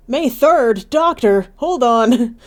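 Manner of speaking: loud, high-pitched exclamation; loud burst of amused disbelief; excited outburst. Real, not acted. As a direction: call it out urgently, breaking into laughter. Laughing outburst at repeated game text.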